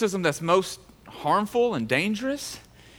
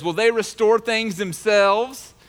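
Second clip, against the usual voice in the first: mocking taunt; 5 semitones higher, 4 dB louder, slower than usual. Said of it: "read the tone into it".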